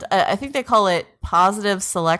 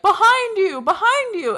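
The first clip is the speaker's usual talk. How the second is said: mock yelled warning; 13 semitones higher than usual. Friends warning killer T cell, high mock yell. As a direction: imitate friends calling out an urgent warning. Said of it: "his friends kept yelling at killer T cell".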